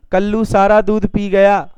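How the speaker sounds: सारा पर ज़ोर देकर; "सारा" को ज़ोर से बोलो; stress on सारा. Shown as a demonstration. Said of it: "कितना पी गया?". ("सारा" पर ज़ोर)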